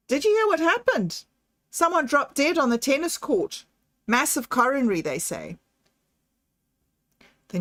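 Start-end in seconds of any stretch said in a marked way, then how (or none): 0.1-5.6 lightly raised, higher call from a passerby. Acted. Passerby calls out news to Jack, lightly raised. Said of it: "A man called out to him".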